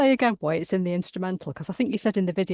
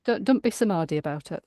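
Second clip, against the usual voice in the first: Derbyshire accent. Shown as a demonstration. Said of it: "in a Derbyshire accent, it does work like".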